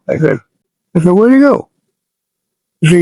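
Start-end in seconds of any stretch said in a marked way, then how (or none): 1.1-1.7 high, louder demand; urgent call. Retold or imitated. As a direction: cry out, needing an answer now. Searching for missing friend.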